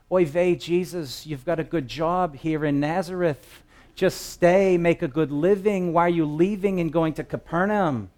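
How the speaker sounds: put-on a light Yiddish accent, relative pleading; fussing aunt with a hint of Yiddish. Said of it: "That's the best I can do".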